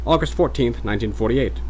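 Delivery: Mid-Atlantic date, repeated; formal Mid-Atlantic, settling down; Mid-Atlantic accent. Acted. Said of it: "mock Mid-Atlantic voice".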